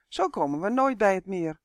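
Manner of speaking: luid, ongeduldig verder roepen. Acted. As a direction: blijf de draak ongeduldig toeroepen. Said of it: "riep Uf". (elf Uf roept ongeduldig verder naar Leg)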